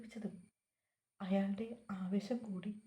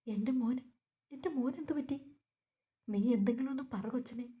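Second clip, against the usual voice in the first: mild distraught cry; 3 semitones higher, 4 dB louder than usual. Acted. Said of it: "അയാളുടെ ശബ്ദം".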